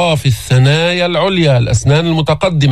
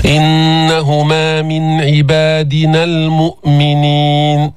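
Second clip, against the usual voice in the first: slow, sustained tajweed chant; Quranic recitation; much slower than usual. Shown as a demonstration. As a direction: recite with long, even held vowels. Recites the verse as model.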